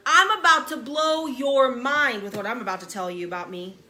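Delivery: excited bold declaration; bold boast. Acted. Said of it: "He goes".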